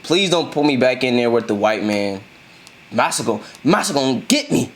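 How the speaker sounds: mock the teller's begging as a slave. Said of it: "sound, like, slave-related".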